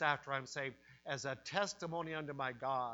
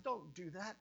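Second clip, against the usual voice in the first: pleading the case, higher and higher; urgent rebuke; 9 semitones higher than usual. Acted. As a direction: rebuke him, rising to a cry. One thief rebukes the other.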